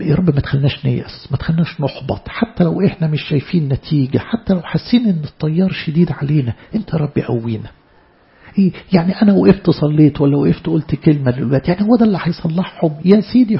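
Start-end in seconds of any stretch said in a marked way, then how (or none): 0.0-7.7 a hushed, pleading prayer. Acted. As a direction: ask God gently not to let them despair. Prays for strength.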